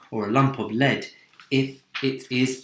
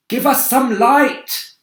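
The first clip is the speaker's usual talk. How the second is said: loud slow high call; shout; 14 semitones higher, 11 dB louder, slower than usual. Acted. Old grasshopper calling in the dark, loud slow shout. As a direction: call out for light. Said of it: "shouted the old green grasshopper".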